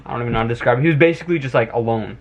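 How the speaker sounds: tipsy rambling speech. Real, not acted. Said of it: "fuck, I'm getting drunk".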